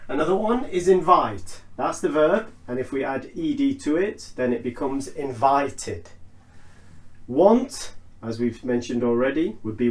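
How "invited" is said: "invited" with a clear final "tid"; id ending. Shown as a demonstration. Teacher giving another example, "invited" ending in tid. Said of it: "note how I'm pronouncing the I D".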